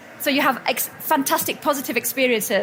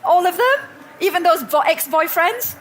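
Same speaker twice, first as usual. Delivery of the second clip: higher and louder, whiny disbelief; mock reluctant protest; 6 semitones higher, 4 dB louder than usual. Balking at forgiving her ex-boyfriends, high whiny protest. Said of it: "I was like".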